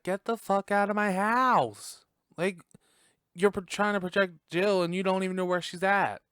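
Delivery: loud, high-pitched acted outrage; Kirby. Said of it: "And Kirby's like".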